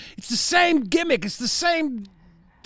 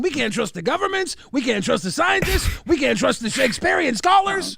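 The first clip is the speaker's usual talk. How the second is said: mock ranting shout. Conspiracy rant building.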